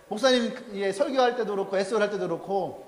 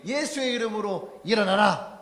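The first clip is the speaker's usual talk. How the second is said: matter-of-fact command. Retold or imitated. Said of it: "그냥 당연한 듯이".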